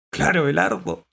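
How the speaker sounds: high, loud, cheerful assurance; smiling. A narrator's reading. Dog reassuring the cat, smiling and upbeat. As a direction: say it through a smile. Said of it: "dijo Galleta sonriendo".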